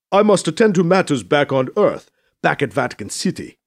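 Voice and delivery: firm, emphatic voice of a stately leader; departing dignitary. Acted. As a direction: announce your departure with measured weight. Voices Mbeke in the story.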